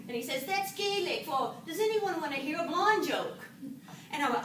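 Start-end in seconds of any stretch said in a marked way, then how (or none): 0.4-3.4 lightly put-on Irish voice; playful Irishman offering a joke; Irish accent. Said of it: "an Irish accent".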